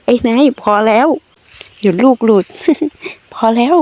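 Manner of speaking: squealing stop between laughs; laughing while tickled. Acted. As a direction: beg him to stop through the laughter. Being tickled, begging him to stop.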